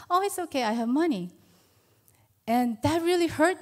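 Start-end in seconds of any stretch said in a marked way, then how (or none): 0.1-1.3 put-on higher, breezy teen-daughter voice; imitating her daughter. Mother imitates her teenage daughter turning down her offer, higher mock voice. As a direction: mimic the daughter brushing off the offer.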